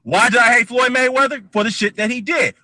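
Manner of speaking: high-pitched rhetorical question and answer; heated self-defence. Real, not acted. Host answering E J's question on Mayweather, heated self-defence.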